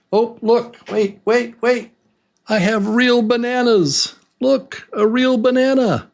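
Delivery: very high-pitched, eager show-off voice; excited squeal. Acted. Teacher showing learners the real banana props, high excited voice. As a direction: pipe up high, bursting to show it off.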